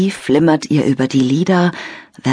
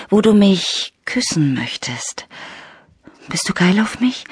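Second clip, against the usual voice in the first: whisper; 3 semitones higher than usual. Acted. Lena whispers into phone.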